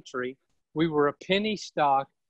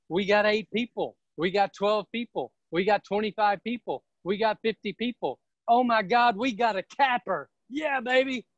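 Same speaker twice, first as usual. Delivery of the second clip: rising higher with each count, ending in a cheer; building excitement; 4 semitones higher than usual. Retold or imitated. Recruiter hyping his growing team to agents, building to a high excited cheer. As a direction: hype the numbers up until you whoop.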